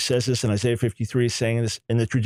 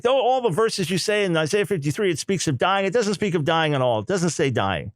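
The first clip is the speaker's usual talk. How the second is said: retold insistence, starting higher and falling; emphatic; 3 semitones higher than usual. Rabbis flatly denying the lecturer's point, retold emphatically. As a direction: imitate a firm denial, pitch stepping down. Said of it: "They were so emphatic".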